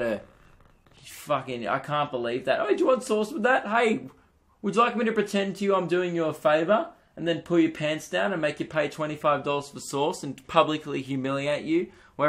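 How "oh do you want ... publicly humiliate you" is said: a pushy cafe worker faking a favour; pitched-up mock politeness that fades by the end; mock sarcastic server.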